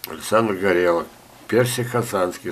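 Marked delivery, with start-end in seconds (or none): none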